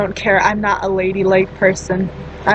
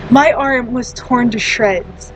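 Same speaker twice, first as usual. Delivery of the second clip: slow, deliberate stress on "torn to shreds"; "torn to shreds" drawn out with weight; emphatic; slower than usual. Real, not acted. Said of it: "I cannot stress this enough".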